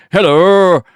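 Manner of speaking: slow, drawn-out pompous voice; a haughty lapdog speaking slowly; snooty poodle voice. Retold or imitated. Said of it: "I'll just say dumb shit".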